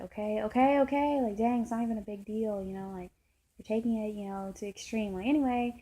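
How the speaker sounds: imitating her dismissive brush-off, loud burst on the okays; mock attitude. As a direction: act out impatient attitude. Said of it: "a whole bunch of attitude".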